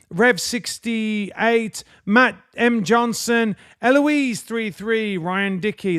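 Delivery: slow, measured roll call of names; shout-out list reading. Acted. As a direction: read out the member names, each one distinct. Reads member names aloud.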